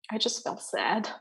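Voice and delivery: breathy, barely voiced; whispered sadness. Real, not acted. Mother recalling her loss, whispering softly. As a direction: let the words fall to a whisper. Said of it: "whispered admission of sadness".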